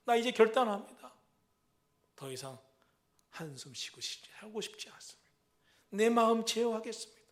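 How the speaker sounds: loud, firm vow; resolute declaration. Acted. Believer vowing to control the heart, loudly resolute. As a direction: proclaim the decision with force.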